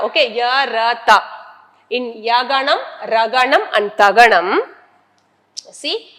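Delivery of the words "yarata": syllable by syllable. Shown as a demonstration. Repeats mnemonic for learners to remember.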